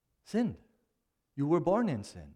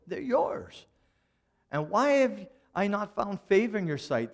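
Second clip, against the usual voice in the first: higher, pleading, stretched-out complaint; exasperated Moses; 6 semitones higher than usual. Retold or imitated. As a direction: throw the burden back at God. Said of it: "He says".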